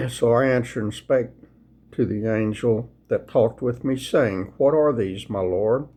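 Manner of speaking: unhurried, reverent scripture reading. Acted. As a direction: read the Bible aloud like a sermon text. Reads Zechariah aloud to viewers.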